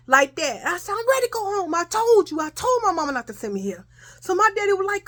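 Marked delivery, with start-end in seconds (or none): 0.9-3.9 high wail falling toward the end; reenacted tearful protest. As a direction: protest like an upset child wanting out. Screaming child begs to go home.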